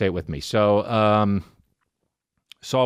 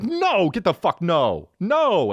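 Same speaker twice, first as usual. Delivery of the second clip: yelling; 8 semitones higher, slower than usual. Retold or imitated. Yelling at dog.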